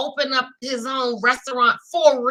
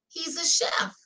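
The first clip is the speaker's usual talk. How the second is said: whispered aside; 5 semitones higher, 3 dB quieter than usual. Pretend. Answering her own quiz question in a whisper. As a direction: whisper it, unvoiced and secret.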